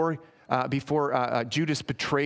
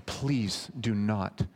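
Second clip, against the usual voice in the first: humble plea; slower than usual. Acted. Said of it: "plead on our behalf and say".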